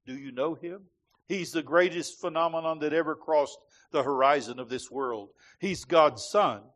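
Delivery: rhythmic list-preaching read aloud, a hint of Lockridge's build; reading a famous sermon to the congregation in a preaching rhythm; preaching cadence. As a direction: roll through the titles like a preacher building up.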